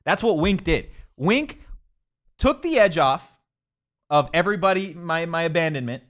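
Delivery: high, loud sponsor testimonial; comic ad read. Acted. Host telling listeners how Wink rescued a lonely weekend, animated ad read.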